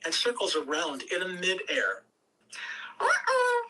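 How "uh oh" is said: much higher, louder uh-oh; a sudden guilty uh-oh. Acted. Zion seeing the destruction, a high loud uh-oh. Zion after crashing into pillar.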